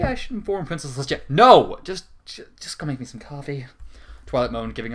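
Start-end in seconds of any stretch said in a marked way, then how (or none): 1.3-1.8 loud snapped no; sharp refusal. Acted. Twilight refusing Spike, a loud sharp no. 1.8-3.7 whispered, weary order; groggy whisper. Acted. Hungover Twilight sending Spike for coffee in a whisper.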